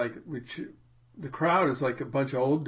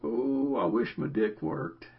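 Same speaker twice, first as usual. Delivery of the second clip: put-on old man's voice; 4 dB quieter, slower than usual. Son joking to his dad about the old dude, old man's voice. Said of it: "in the old man's voice".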